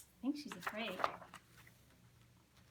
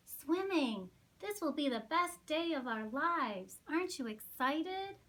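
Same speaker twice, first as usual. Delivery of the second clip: excited; 4 semitones higher than usual. Acted. Excited chick.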